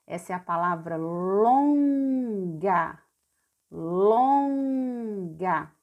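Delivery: "longa" stretched long with a nasal "lon"; teacher draws out "longa" slowly; drawn-out word. Shown as a demonstration. Teacher reads the word to pupils, drawn out. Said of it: "mais esse N aqui, ó, vai ficar lon".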